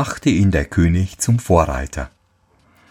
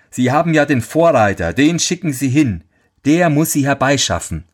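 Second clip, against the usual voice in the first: scheming servant; 6 semitones higher than usual. Acted. Scheming servant advises king.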